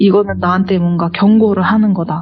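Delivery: ordinary talk, nothing marked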